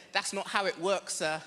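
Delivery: a hint of a stern clerk; lightly voiced shelter lady; prim lady. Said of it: "the lady said".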